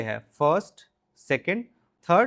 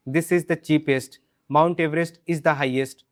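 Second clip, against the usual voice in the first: slow drill lines; much slower than usual. Shown as a demonstration. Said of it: "drill examples".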